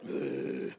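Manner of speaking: mock resentful whisper; grumbling whisper. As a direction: grumble it under your breath. Haman grudgingly leading Mordecai's horse.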